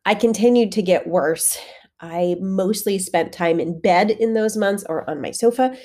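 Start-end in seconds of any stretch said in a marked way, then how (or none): 0.1-1.6 real breathy whisper from illness; barely voiced, air running out; sick and short of breath. Real, not acted. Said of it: "you can hear that in my voice".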